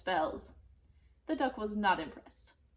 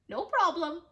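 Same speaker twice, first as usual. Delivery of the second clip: witch voice; 7 semitones higher, 6 dB louder than usual. Acted. Witch answers cheerfully.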